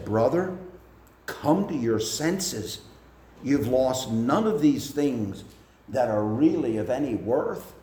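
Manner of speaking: tender but firm. Retold or imitated. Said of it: "in a very tender but firm voice".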